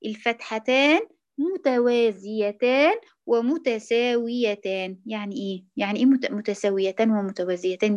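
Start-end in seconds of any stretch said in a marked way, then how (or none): 0.1-5.0 slow and deliberate stress on الفتحتان; teacher stressing the key rule; emphatic explanation. Shown as a demonstration. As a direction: lean on الفتحتان, slowly. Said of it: "لكن انتبهي".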